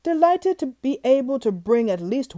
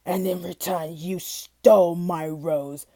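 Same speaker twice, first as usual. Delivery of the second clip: beast accusing; 3 semitones lower, slower than usual. Acted. Beast accuses Mister Fortune.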